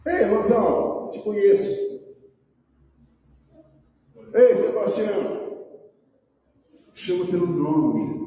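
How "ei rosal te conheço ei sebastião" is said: lightly acted friendly hail; God calling by name. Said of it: "Deus tem prazer de dizer assim".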